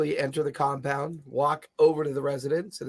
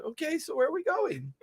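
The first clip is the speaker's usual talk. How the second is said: put-on old man voice; 5 dB quieter than usual. Grumbles voice again.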